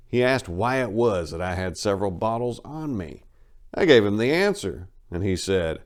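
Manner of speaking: steady dramatic reading of a road memoir; first-person travel tale, told straight; story narration. A narrator's reading. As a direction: read it like a storyteller at the bar.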